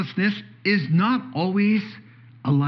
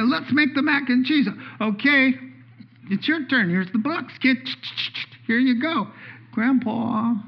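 put-on high child voice; 8 semitones higher than usual. Child voice asks for help.

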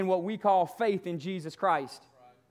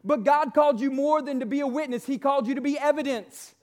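booming motivational speech; 2 semitones higher than usual. Acted. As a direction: preach it at full force to the congregation. Builds to booming preaching.

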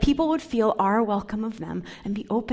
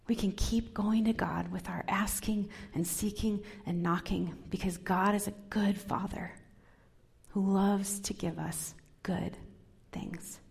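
soft whisper; 6 dB quieter than usual. Shown as a demonstration. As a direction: lean in and whisper the promise. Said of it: "same line said plainly just before".

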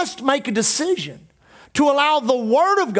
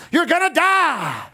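a mild mock taunt, slow and a touch higher; lightly voiced menacing thought; menacing inner voice; 6 semitones higher, slower than usual. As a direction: chant the threat like a voice in her head. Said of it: "cancer screamed".

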